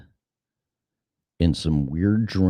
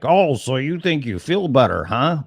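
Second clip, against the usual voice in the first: high, mocking sing-song taunt; taunting virus voice; 8 semitones higher than usual. The virus mocks him for feeling better, high taunt. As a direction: tease the victim like a bully.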